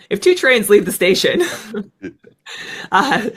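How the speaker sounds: laughs through a math-problem joke; laughing. Real, not acted. Pilot laughing as he tells the host about closure speed.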